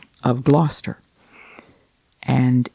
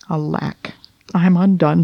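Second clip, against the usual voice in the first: sad lament; 3 semitones higher than usual. Acted. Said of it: "went sadly to bed".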